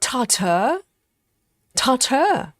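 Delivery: tartar ending in 'ter'; viewer's pronunciation. Retold or imitated. Host trying the viewer's word, imitated TAR-ter for tartar. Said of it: "We say tartar".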